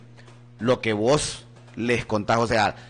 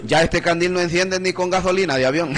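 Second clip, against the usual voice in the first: laughing while joking; 3 semitones higher than usual. Real, not acted. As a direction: joke told through a laugh. Teasing a friend on air.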